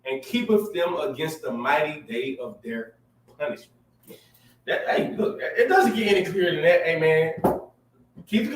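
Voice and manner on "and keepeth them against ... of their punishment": slow, solemn verse reading; scripture reading. Acted. Reading Ecclesiasticus to the audience, slow and solemn. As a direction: read it out like a pulpit reading. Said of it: "I wanna hit him with this".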